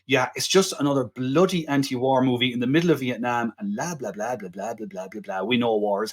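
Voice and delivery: dismissive critic voice fading to a mumble. Retold or imitated. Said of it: "the critics at the time are saying".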